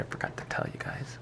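whispering. Real, not acted. Quiet aside.

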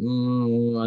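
drawn-out humming and hawing; mock undecided "mm"; retold hesitant hum. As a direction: hum as if unsure, retelling it. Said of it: "I was humming and hawing".

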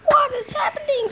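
breathless whispered question. Acted. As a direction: whisper it in alarm. Doc asks, startled.

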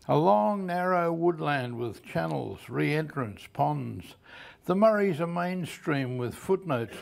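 measured poem reading, each phrase falling at its end; poetry reading. Acted. Poet reads his river poem to a library audience, measured recital. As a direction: read the poem aloud in evenly set-out phrases.

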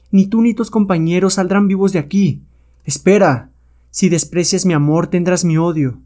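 slightly high witch voice, threatening; menacing witch. Acted. Witch threatens Calimán and his companions over her spurned love, menacing.

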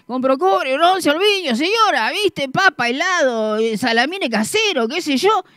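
loud hawker's chant; street vendor call. Retold or imitated. Vendor shouting his wares again, loud. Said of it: "escuchar que el otro, otra vez".

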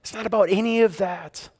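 tender. Acted. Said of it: "tenderly speaking to her".

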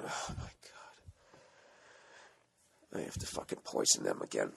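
a pop star's secret nasty thoughts, hushed; sinister mock whisper. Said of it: "she looked like she was thinking".

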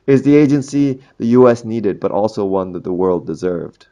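half-hearted nod to the Batman line; Batman quote. Retold or imitated. Teacher quotes Batman to students, lightly voiced hero. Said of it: "I think that's the Batman quote".

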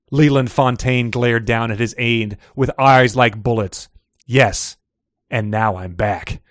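animated reading with acted dialogue; dramatic story narration. A narrator's reading. Host reads a suspense excerpt to co-host, dramatic narration. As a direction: play up each character's line as you read.

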